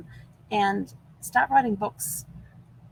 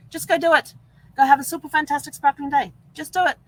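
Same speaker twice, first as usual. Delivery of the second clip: cheerful rallying; 7 semitones higher, 5 dB louder than usual. Real, not acted. Cheerful sign-off.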